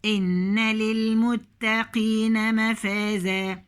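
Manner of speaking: slow measured tajweed chant; slow Quranic recitation. Shown as a demonstration. Recites verse slowly.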